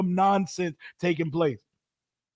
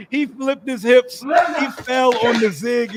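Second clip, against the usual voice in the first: laughing shout; 4 semitones higher, 4 dB louder, slower than usual. Real, not acted.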